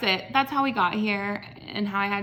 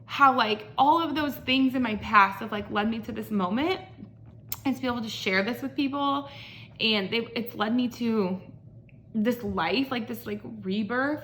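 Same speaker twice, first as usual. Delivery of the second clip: emotional, choked up. Real, not acted. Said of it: "why am I getting emotional?".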